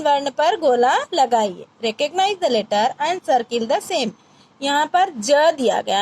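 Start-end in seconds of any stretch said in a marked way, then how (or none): 1.8-4.1 slow English. Shown as a demonstration. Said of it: "teacher translating instruction".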